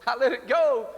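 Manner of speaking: a strong final "I let it go."; firm declaration. Retold or imitated. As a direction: announce it with conviction. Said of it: "She said".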